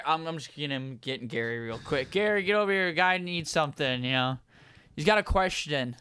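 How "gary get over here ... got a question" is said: raised-pitch Australian manager calling out; Australian accent. Acted. Manager summons Gary for a customer, Australian accent. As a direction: call across the restaurant in Australian. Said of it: "is Australian".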